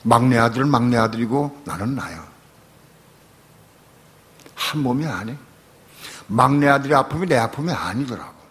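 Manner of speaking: earnest prayer to God; retold prayer. Pastor retelling his night prayer, earnest prayer. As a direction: confess plainly to God. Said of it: "제가 그렇게 기도했어요".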